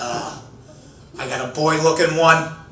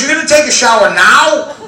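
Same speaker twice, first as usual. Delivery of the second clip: incredulous wife; 7 semitones higher, 6 dB louder than usual. Retold or imitated. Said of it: "She goes".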